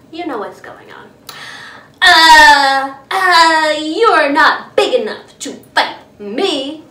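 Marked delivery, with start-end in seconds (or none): 2.0-6.8 blustering retreat. Acted. Grouchy ladybug backs down.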